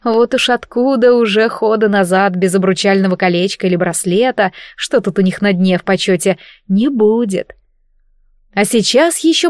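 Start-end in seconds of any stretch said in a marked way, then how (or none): none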